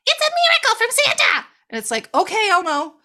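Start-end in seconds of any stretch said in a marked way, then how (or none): 0.0-1.5 put-on high, loud, overjoyed kid voice; mock gushing kid. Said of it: "she's like". 2.1-3.0 mock exasperation. Real, not acted. Mocking the overly cheerful child.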